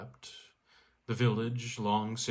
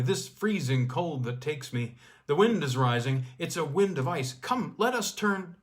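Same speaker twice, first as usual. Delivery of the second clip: louder, rising urgent plea; alarmed plea; 3 semitones higher, 4 dB louder than usual. Acted. Skier begs the girl to turn back, alarmed. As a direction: beg her to turn back, afraid. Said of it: "he cried out sharply".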